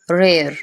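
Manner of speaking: रेयर with an "e-ar" glide; isolated, falling रेयर; correct vowel. Shown as a demonstration. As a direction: model रेयर as "re-ar". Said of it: "रेयर बोलना है".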